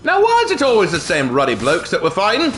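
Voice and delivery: hammed-up British accent, a touch exasperated. Player grumbling at enemies in a hammed-up British accent. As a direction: grumble like a stuffy Brit. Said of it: "that was very British of me".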